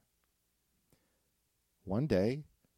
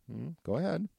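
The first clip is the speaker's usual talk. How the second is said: piggy voice; 9 semitones higher than usual. Acted. Piggy dares wolf.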